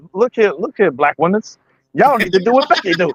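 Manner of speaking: preachy man. Retold or imitated. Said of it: "the black man was like".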